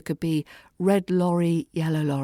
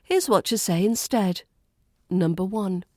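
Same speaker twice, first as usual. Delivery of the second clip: ordinary talk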